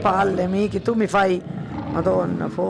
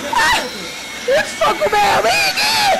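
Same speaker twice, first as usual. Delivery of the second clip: terrified calling; slower than usual. Real, not acted. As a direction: call for help in real fright. Mother terrified, calling son. (invoca il figlio in preda al panico)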